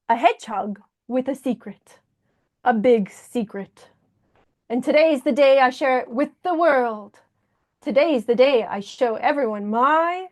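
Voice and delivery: put-on storytime reading with a light French accent; lightly French-accented hedgehog narrator. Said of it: "I do the accent as well".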